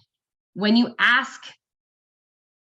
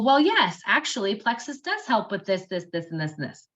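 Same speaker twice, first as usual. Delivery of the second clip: dry logical listing. Shown as a demonstration. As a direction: rattle off the features matter-of-factly. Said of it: "That's the logic".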